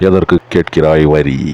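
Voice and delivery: slow, grand swaggering movie line; swaggering movie one liner; Kattabomman dialogue. Retold or imitated. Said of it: "Veerapandiya Kattabomman வசனத்தோட".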